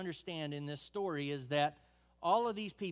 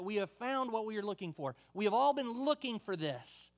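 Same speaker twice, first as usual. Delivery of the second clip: mildly excited, higher-pitched retelling; an understated exclamation of discovery; retold exclamation; 4 semitones higher than usual. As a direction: lift the pitch as if announcing a find. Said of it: "pretty much exclaiming to Nathanael".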